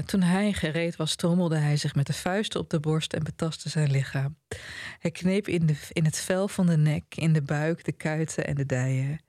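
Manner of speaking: measured reading of a novel's ending; literary reading. A narrator's reading. Reading the famous last passage to the panel, measured literary delivery. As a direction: read it out evenly, each short clause set apart.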